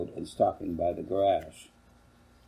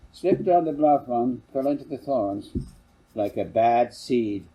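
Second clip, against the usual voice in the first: a hint of a boy's voice, louder; lightly voiced boy; 3 semitones higher, 6 dB louder than usual. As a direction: brush it off like a kid. Boy explains his scratches.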